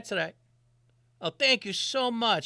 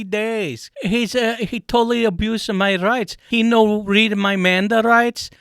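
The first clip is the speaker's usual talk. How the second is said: angry rant; 4 dB louder than usual. Acted. Ranting at Zuckerberg.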